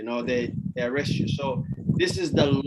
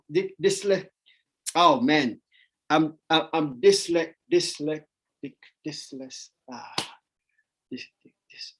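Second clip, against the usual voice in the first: struggling to say word. Real, not acted. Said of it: "ah, I can't say it".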